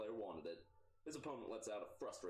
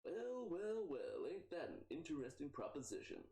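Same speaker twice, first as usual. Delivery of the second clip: intrigued; 8 semitones higher than usual. Acted. Torque intrigued, loud high.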